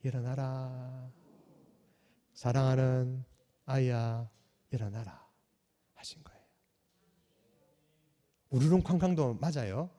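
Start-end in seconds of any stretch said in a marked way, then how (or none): 0.0-5.2 very soft, slow, tender wake-up; gentle Jesus call. Retold or imitated. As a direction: speak it softly as to a sleeping child. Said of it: "뭐라고요?".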